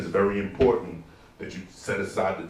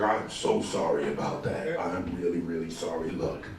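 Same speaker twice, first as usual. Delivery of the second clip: hushed apology; 5 semitones lower, 6 dB quieter than usual. Retold or imitated. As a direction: apologize low and embarrassed. Apologizing to homeless man.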